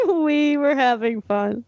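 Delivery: "we were having fun" slow, closed off with a full stop; ending on a period. Shown as a demonstration. Reader insists on no exclamation point, "we were having fun" as a slow, final statement.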